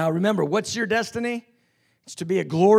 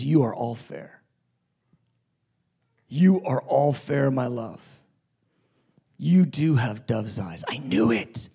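tender Jesus; 9 semitones lower than usual. Acted. Preacher voices Jesus tenderly to bride.

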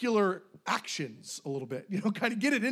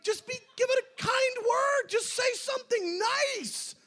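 much higher, slow, shouting in disbelief; exasperated shout. Acted. Preacher urging the congregation to be kind, high exasperated shout.

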